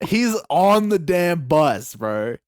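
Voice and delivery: loud, drawn-out disbelief; incredulous punchline. Real, not acted. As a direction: land the reveal slowly and loudly.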